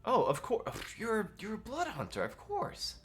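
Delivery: high, eager bard voice; bard Oslo voice. Acted. Game master voicing the bard Oslo to the hunter, high and eager. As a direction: play the chirpy young bard.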